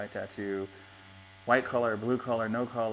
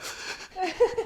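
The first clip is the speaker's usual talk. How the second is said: high mock whimper of hurt feelings; imitated near-crying; 5 dB louder than usual. Grandpa mimicking his granddaughter's hurt feelings, mock whimpering. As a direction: make a loud, high almost-crying noise. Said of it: "not crying, but like".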